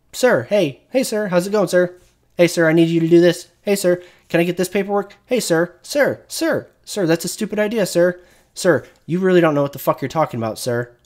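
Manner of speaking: high, fast nagging parody of crew; mock subordinate. Streamer parodying soldiers who say sir nonstop, high and fast mock. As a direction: rattle off sir after sir in a put-on high voice.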